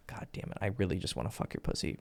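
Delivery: whispered, breathy and wicked; devilish whisper. Shown as a demonstration. Lustful whisper to a girl he wants to bed. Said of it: "kinda devilicious".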